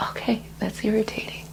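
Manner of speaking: calm naming. Shown as a demonstration. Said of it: "I'm gonna say".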